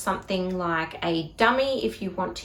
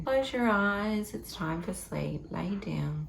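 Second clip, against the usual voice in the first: quiet sleep words; 6 dB quieter than usual. Shown as a demonstration. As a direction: hush them back to sleep gently. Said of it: "use your sleep words".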